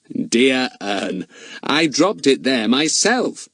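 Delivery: a touch of sly amusement; grinning. Acted. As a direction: let the grin be heard. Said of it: "grinned Fatty".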